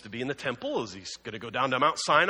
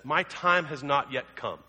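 smirking. Retold or imitated. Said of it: "he kinda smirks".

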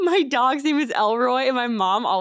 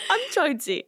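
mock baby talk, higher; 5 semitones higher than usual. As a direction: coo it like a sleepy toddler. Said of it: "But I'll say it like a baby voice".

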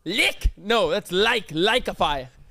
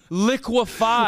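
slow, drawn-out liquefy; 4 semitones higher, 3 dB louder, much slower than usual. Shown as a demonstration. Host spelling out the word for his stuck friend, very slowly. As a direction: stretch every sound of "Liquefy" very slowly. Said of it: "Slow down".

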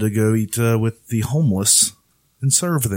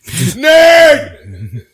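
loud high laughing yell of nerd; playful laughing jab; teasing shout; 10 dB louder than usual. Real, not acted. Teasing friend.

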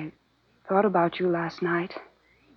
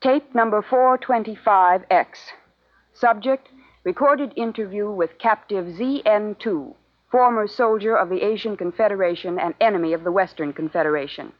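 formal recording announcement. Acted. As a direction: announce the tape like an official log entry. Formal dictation of tape header.

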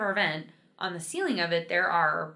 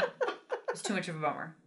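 put-on Valley Girl; 6 dB quieter than usual. Shown as a demonstration. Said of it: "like a Valley Girl".

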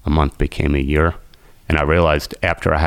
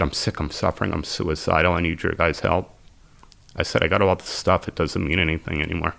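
softer, broken admission to strangers; hushed confession; 5 dB quieter than usual. Retold or imitated. Confessing to the meeting he is sick, softly. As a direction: barely get the words out, ashamed.

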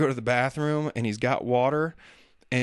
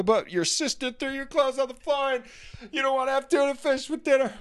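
mock whine; 13 semitones higher than usual. Parent voicing kid complaints.

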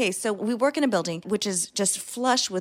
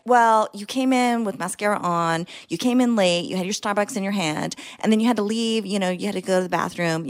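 accusing; 5 dB louder than usual. Acted. Accusing a client, listing faults.

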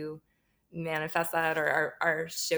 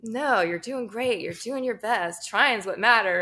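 slow, higher, soothing encouragement; imitating reassurance; 4 semitones higher, 5 dB louder, slower than usual. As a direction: comfort a gloomy friend gently, lightly imitated. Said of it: "He's like".

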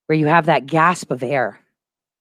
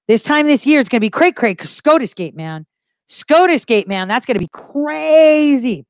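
quoting her tweet; 6 semitones higher than usual. Retold or imitated. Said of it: "I tweeted out".

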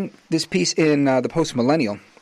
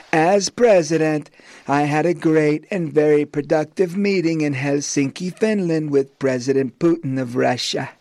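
a loose, affectionate Trump take; Trump impression. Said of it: "in my Donaldus Magnus voice, my, uh, best impression".

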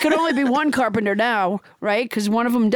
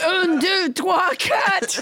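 emphatic, higher mock-French counting; French Trump; 5 semitones higher, slower than usual. French Trump counts for the host, higher hammy French accent. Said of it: "your extremely realistic accent".

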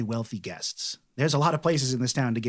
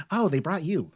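softened delight, only a little high; fond repeat after the squeal; excited, settling down; 4 semitones higher than usual. Acted. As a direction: coo it to the dog, easing down. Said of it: "she's actually very excited to see Morty".

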